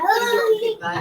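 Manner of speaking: high, loud alarmed plea; retold alarmed shout. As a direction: cry out in panic to the toddler. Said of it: "I was like".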